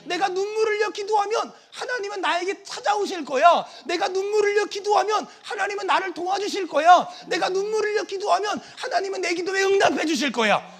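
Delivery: emphatic, rhythmic declaration of trust; David's firm faith. Acted. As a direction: proclaim each promise with rising conviction. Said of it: "분명한 믿음이 있었어요".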